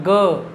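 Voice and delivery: ग with the tongue low and relaxed; ग sounded with no force; soft ga demo. Shown as a demonstration. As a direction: say ग plainly with the tongue down. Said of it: "और ग पे क्या हो रहा है".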